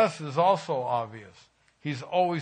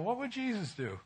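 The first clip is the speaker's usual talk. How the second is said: raised, softer question to himself; thoughtful inner voice; 7 semitones higher, 6 dB quieter than usual. Retold or imitated. Pastor recalling his second thought about the neighbor, softly raised. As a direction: muse it like a sudden realisation. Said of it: "Then I thought to myself".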